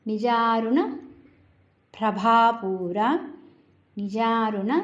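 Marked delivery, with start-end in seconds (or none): 1.9-3.0 ప్రభాపూర with a long aspirated భా; careful ప్రభాపూర with a breathy long bhaa. Shown as a demonstration. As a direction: give the భా in ప్రభాపూర full breath and length. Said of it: "బాకు దీర్ఘం ఉంది".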